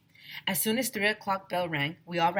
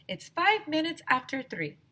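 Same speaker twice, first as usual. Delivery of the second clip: put-on know-it-all kid; 11 semitones higher than usual. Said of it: "said Andrea".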